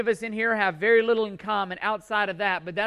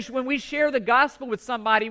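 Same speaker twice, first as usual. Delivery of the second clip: ordinary delivery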